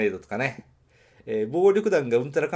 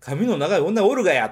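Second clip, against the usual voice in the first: 「髪の長い女おるがや」 in natural Nagoya dialect, higher and louder, falling on おるがや; real Nagoya dialect; 6 semitones higher, 5 dB louder than usual. Shown as a demonstration. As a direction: say it the way a Nagoya local really would, with the がや ending. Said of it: "そっちの方がリアルだと僕は思う".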